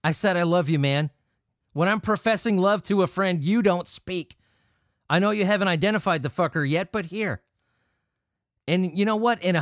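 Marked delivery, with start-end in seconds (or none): 0.0-7.4 pushy buddy again. Retold or imitated. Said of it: "And then Frederick's like".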